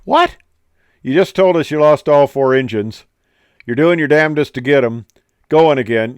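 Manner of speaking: loud, high-pitched mock disbelief; hammed-up outraged passengers, starting on a high yelp; incredulous passengers. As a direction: throw the captain's words back in disbelief. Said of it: "Guys in the back are going".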